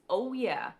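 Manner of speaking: loud emphatic oh yeah; hammed-up enthusiastic yes; mock oh yeah. Her spirit guide answering yes, loud and mock-enthusiastic.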